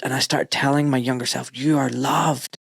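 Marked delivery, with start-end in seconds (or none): 1.5-2.6 tender reassurance. Retold or imitated. Telling his younger self he's loved, slow and tender. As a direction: hold each word like you're soothing a small boy.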